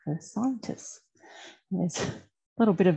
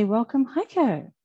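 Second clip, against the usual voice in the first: slow, higher ceremonial welcome; grand welcome; 5 semitones higher, slower than usual. Real, not acted. Host hands over to the presenter with a slow, higher grand welcome. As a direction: roll out the welcome like an MC. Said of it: "I'm going to hand across to our presenter today and say".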